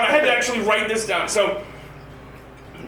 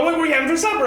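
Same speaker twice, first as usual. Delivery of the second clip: put-on higher, cheerful little-girl voice; sweet little girl; 6 semitones higher, much faster than usual. Daughter asking dad about supper, high and cheerful. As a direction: chirp it like a happy four-year-old. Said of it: "All nice and happy".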